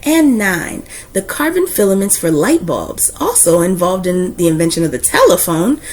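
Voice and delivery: put-on steady, earnest read-aloud for kids; warm, proud storyteller reading to a class; story narration. Reads a picture book aloud.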